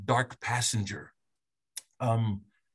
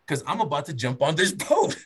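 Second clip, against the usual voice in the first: chuckling his escape plan; amused, half laughing; laughing through it; 2 semitones higher than usual. Real, not acted. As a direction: laugh as you tell it.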